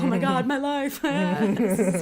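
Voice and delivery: high, loud giddy delight; thrilled squeal. Retold or imitated. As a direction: gush like a starstruck fan. Acting her thrilled reaction.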